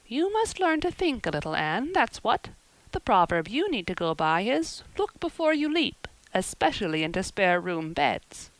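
brisk village busybody telling her news; lightly voiced gossipy neighbour. Neighbour gossiping about the trouble, lightly voiced and knowing. Mrs Lynde giving advice.

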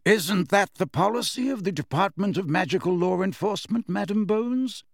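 put-on mild, reasonable old wizard; Dumbledore, pleasant. A narrator's reading. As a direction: make the legal point with polite assurance. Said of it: "said Dumbledore pleasantly".

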